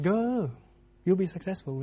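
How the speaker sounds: mock-encourage him, falling away at the end; sarcastic. Micaiah answering the king about going to battle, sarcastic. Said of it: "he gives a very sarcastic response".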